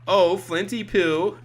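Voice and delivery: high, slow, drawn-out fortune teller voice; Mad Gypsy. Retold or imitated. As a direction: croon it slowly like a fortune teller. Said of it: "That was my Mad Gypsy impression".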